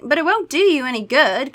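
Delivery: high, loud protest; crying out. A narrator's reading. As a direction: cry it out insistently. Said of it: "Kara cried".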